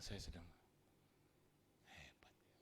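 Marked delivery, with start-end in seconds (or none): 1.9-2.5 unvoiced, hushed "Hebat ya"; whisper. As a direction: breathe it as a secret aside. Whispered aside in retold scene. (berbisik pelan)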